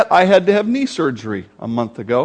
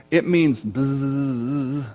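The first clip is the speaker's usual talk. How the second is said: buzzing sound; 4 semitones lower, 6 dB quieter, much slower than usual. Shown as a demonstration. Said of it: "a word like buzz".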